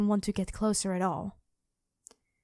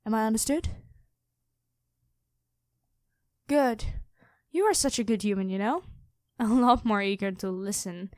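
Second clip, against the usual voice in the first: lightly voiced dragon queen. Dragon queen toying with her captured hunter, calm and lightly menacing. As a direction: purr like a predator who has already won. Dragon reveals herself to knight.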